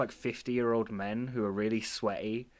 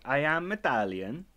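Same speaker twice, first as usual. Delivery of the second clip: lightly mocking Italian accent, a bit higher; imitated Italian accent; 4 semitones higher than usual. Friend imitating another's attempt at accents, mock Italian accent. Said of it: "what you're doing is like".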